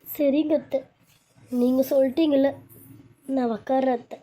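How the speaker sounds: high-pitched, tearful obedience; acted on the verge of tears. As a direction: answer an elder meekly through tears, pitched high. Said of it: "தயவு செஞ்சு நீ அழாத".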